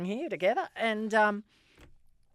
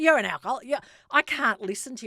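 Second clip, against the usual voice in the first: retold scolding; 7 semitones higher, 5 dB louder than usual. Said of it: "and she goes".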